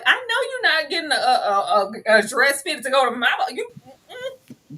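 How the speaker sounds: mock church mother brushing her off, high. Host voicing Mama Scott dismissing the other mother, high and sassy.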